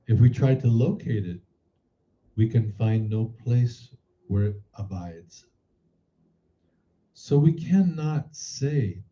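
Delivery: measured read-aloud of a spiritual text, deliberate pauses. Acted. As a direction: read it out phrase by phrase, with lifted key words. Reads a teaching text aloud.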